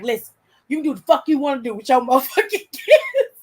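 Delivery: mock-furious dad telling off the church lady; retold angry rant. Dad on the church bus going off on a lady, mock furious. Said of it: "my daddy went off on her".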